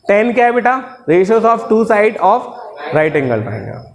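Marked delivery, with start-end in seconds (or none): 1.1-3.8 drawn-out chanted definition, very slow; slow recitation. Shown as a demonstration. Teacher reciting the definition for students, slow chant. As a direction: recite it slowly for the class to repeat.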